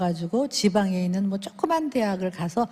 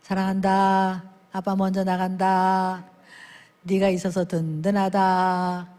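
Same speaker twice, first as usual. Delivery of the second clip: tender whisper-soft father; 4 semitones lower, slower than usual. Retold or imitated. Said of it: "아들 뺨을 만지면서".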